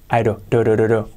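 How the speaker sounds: "do" with the d as a soft flap R; teacher drilling the soft R. Shown as a demonstration. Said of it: "Una R suave".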